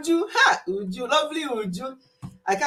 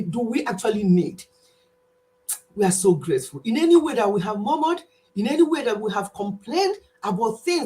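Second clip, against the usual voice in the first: prayer. Acted. Praying for the viewers at the end of July, earnest. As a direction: pray it sincerely to the Father.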